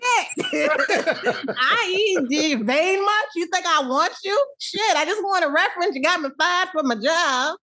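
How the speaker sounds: high voice through laughter; laughing mock Will. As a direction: laugh while playing him.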